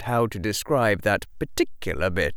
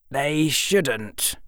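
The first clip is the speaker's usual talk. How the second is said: put-on slightly higher boy's voice, mildly bitter; tinge of bitterness; 7 semitones higher than usual. A narrator's reading. Boy objecting to his fame, a tinge of bitterness. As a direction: let a little bitterness in. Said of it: "with a tinge of bitterness".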